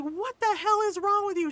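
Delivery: high, loud mock telling-off; imitating scolding mom. Kid's mom telling him off, imitated scolding. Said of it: "She's like".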